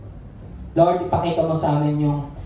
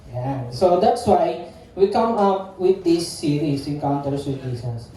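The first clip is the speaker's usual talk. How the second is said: normal talking voice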